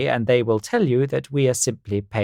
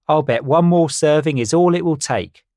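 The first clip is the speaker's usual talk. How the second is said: high bird voice; 6 semitones higher, 5 dB louder than usual. Acted. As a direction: play a silly know-it-all bird. Carl voiced in story.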